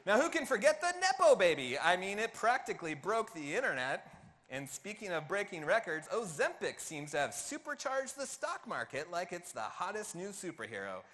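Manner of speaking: loud, lightly put-on stand-up comedian delivery; Seinfeld accent. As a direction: read it like a hammed-up stand-up monologue. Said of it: "read this in a Seinfeld accent".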